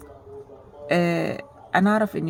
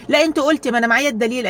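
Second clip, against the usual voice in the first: heated accusation; 5 semitones higher, 4 dB louder, faster than usual. Retold or imitated. Acted sister quarrel.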